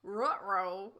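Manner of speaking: cartoon dog's uh-oh, not whispered; Scooby-Doo voice. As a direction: say it out as the cartoon dog. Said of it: "oh, whis".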